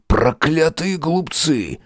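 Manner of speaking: put-on high, needling old man's voice; sarcastic elderly professor scolding; mocking old professor. A narrator's reading. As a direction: taunt him with sly glee.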